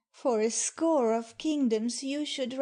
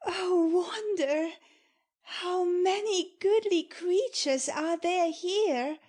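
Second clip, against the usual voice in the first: higher, breathless with wonder; amazed wonder; 5 semitones higher than usual. Acted. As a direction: marvel at every face you see. Miranda marvels at the new people.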